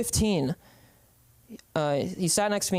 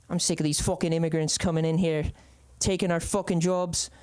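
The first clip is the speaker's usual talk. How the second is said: attempted Irish accent; amateur Irish accent, grumbling about newcomers. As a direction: put on your best Irish brogue. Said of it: "That's my best Irish accent".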